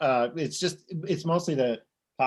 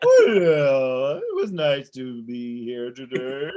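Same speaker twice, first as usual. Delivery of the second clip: Dory whale speak; 2 semitones lower, 5 dB louder, much slower than usual. Pretend. Dory-style whale speak, after Ellen mention.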